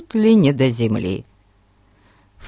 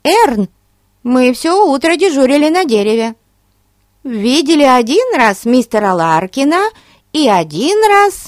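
put-on high, fast excited girl; little girl voice; 9 semitones higher, 5 dB louder than usual. A narrator's reading. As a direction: chatter eagerly like a child.

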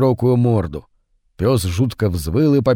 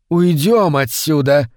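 low passionate voice; 2 semitones higher, slower than usual. Acted. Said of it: "произнесла она низким голосом, полным страсти".

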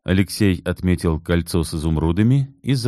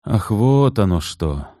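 disappointed; 3 semitones higher, slower than usual. Acted. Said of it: "разочарованно подумал Алексей".

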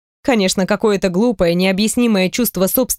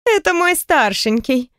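выше и медленнее, хихикая; скажи, посмеиваясь; с хихиканьем; 5 semitones higher, slower than usual. Acted. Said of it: "хихикнула Наталья". (Наталья хихикает о пасынке)

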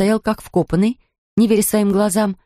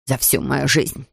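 slow, crisp and stern; stern measured delivery; clipped and firm; 6 semitones lower, 3 dB quieter, slower than usual. A narrator's reading. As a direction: rap out each word. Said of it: "отчеканила миссис Бёрд".

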